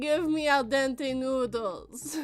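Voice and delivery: mock demand. Mock demand for firmer noodles.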